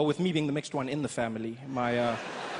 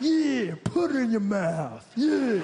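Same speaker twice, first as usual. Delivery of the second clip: higher, louder put-on black American slang, slow and cocky; practised black American voice; 6 semitones higher, 4 dB louder, much slower than usual. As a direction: ham up a swaggering black American accent.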